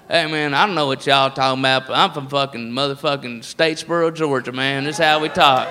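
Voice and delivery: lazy Southern redneck from Statesboro. Retold or imitated. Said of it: "the redneck voice is all over the place".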